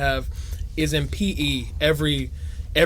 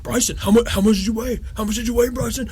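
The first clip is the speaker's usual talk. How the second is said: higher mock taunting; teasing kids; 7 semitones higher than usual. Classmates pester Bryson about weight, teasing. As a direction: needle him like nosy classmates. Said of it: "they'd be like".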